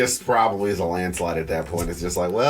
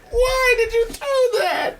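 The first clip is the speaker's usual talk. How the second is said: high, drawn-out pretend wail; playful fake sob, pitched way up; mock crying; slower than usual. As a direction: whine it slowly like you've been hurt, hammed up. Acting out a headbutted, hurt partner.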